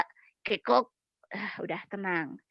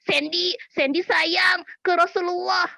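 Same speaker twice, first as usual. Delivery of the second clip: puppet voice; 5 semitones higher, 4 dB louder than usual. Acted. Puppet Sandy answers.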